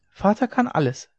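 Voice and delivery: put-on high, delighted little child; child's voice. A narrator's reading. Child boasts of father to mother, high child's voice. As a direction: proclaim it with childlike pride, high.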